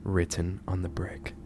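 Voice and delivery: measured, solemn true-crime storytelling; grave storyteller with weighty pauses; ominous horror narration. A narrator's reading. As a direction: narrate a dark case, letting phrase endings sink.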